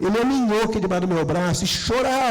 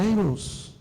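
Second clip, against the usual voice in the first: ordinary delivery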